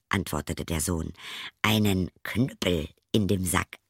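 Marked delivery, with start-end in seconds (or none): 1.6-3.8 geheimnisvoll geflüstert. Acted. Sohn verrät geheimnisvoll.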